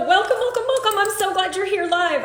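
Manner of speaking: real excited welcome, laugh on the second welcome. Real, not acted. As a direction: greet them with a burst of delight. Excited greeting of live viewers.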